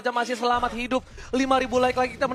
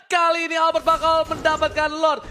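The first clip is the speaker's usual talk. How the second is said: surprised shout; 3 semitones higher than usual. Real, not acted. Caster reacts to Lord steal.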